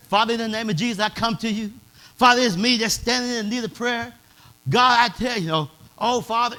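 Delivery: mild imitation of a polished, formal church prayer; lightly mock the fancy prayer from the pulpit; elegant prayer. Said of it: "the elegant prayer".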